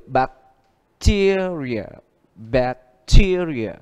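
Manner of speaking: bacteria stressed on TE, bac-TE-ri-a; drawn-out bacteria with weight on the second syllable; slow teacher model of bacteria; stress rule demo. Shown as a demonstration. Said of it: "cũng nhấn trước nó một âm".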